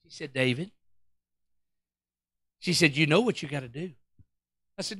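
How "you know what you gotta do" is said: low, soft, knowing wife; hushed spousal reproof; ominous calm. Retold or imitated. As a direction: tell him quietly, with certainty. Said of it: "she starts talking like that".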